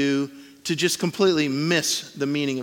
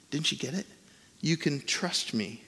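softer repeat; 8 dB quieter than usual. Retold or imitated. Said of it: "and he goes".

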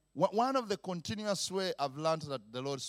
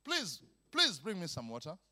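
softly asking his son; gentle, softer first ask; father mildly requesting a favour; polite request; 6 dB quieter than usual. Acted. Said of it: "if I ask my son".

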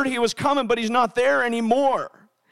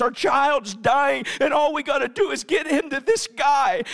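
higher, urgent acted plea; frantic parent; 3 semitones higher than usual. Father of a dying child to his wife, frantic. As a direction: plead like a desperate parent, mildly hammed. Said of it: "imagine the franticness of a parent".

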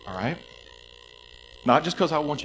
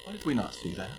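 wondering; 9 dB quieter than usual. Retold or imitated. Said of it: "we're gonna think".

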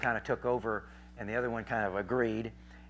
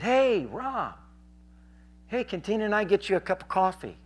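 higher-pitched friendly greeting; friendly call; 8 semitones higher than usual. Retold or imitated. Preacher retells greeting his frenemy, higher, friendly call. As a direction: call over an acquaintance with an offer.

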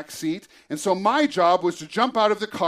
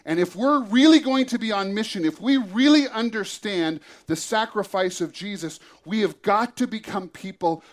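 sermon. Acted. Preacher turns to the message.

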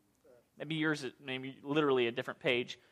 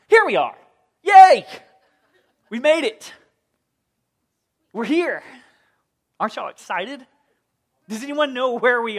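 excited; 6 semitones higher, 13 dB louder than usual. Acted. Arriving after time travel.

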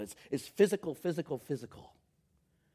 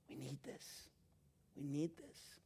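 much softer, earnest and close; intimate hush; 15 dB quieter than usual. Real, not acted. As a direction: say it almost to each one alone. Intimate plea to congregation.

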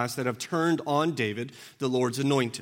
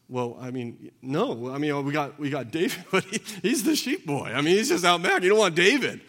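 offhand father, laughing off his youngest; dismissive father; 2 semitones higher than usual. Retold or imitated. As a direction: shrug off the sheep boy with a chuckle. Voicing Jesse dismissing David.

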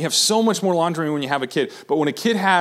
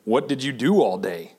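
lower, accusing, judgmental; accusing inflection; 3 semitones lower than usual. Shown as a demonstration. Husband coming home to messy house, accusing wife. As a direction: make it sound like a complaint about her day. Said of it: "if the inflection's wrong".

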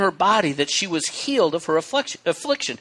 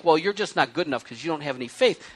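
judgmental; 4 semitones lower, 5 dB quieter, faster than usual. Retold or imitated. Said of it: "never in a judgmental".

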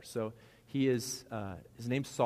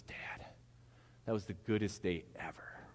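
hushed whisper imitating an awed child; soft, voiceless retold whisper; 5 dB quieter than usual. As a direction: whisper it like a kid confiding in Dad. Acts out young son's awed remark.

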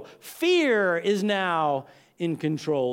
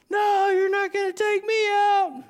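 much higher, a defiant yell; yelling at the wind; 12 semitones higher, 4 dB louder than usual. Retold or imitated. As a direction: shout back at the storm. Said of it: "He's yelling at the wind".

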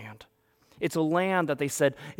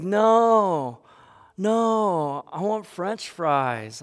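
high, loud, drawn-out refusal; whining kid; 5 semitones higher, 6 dB louder, much slower than usual. Acted. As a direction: throw a mock child's tantrum. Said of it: "all of a sudden the complaining happens".

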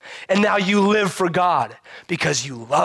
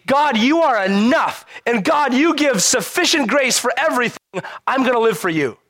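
fervent prayer; 6 semitones higher than usual. Retold or imitated. Acting out a grateful believer's prayer.

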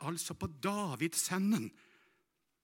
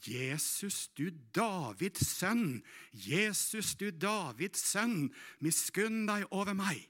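calling out; 6 semitones higher, slower than usual. Acted. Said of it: "Han begynner å rope".

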